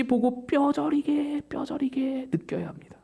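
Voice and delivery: slow, urgent whispered plea; intense whisper. Real, not acted. Preacher urges believers to feel their weakness, in an intense whisper.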